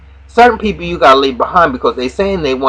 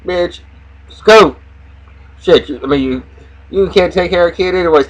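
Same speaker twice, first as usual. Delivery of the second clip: mock shooing yell; 5 semitones higher than usual. Voicing Lucius shooing nannies.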